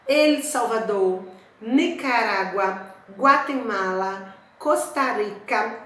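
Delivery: slow, deliberate roll call of countries; slow list reading. Shown as a demonstration. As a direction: read each name out for the class. (leitura lenta da lista de países)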